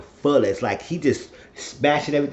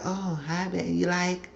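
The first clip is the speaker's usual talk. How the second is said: voiced painter; 6 semitones higher, 7 dB quieter than usual. Voicing the painter woman.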